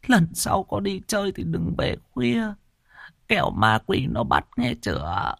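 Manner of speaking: weep with relief over the grandson; tearful grandmother. Acted. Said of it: "Bà ôm lấy đầu nó mà khóc".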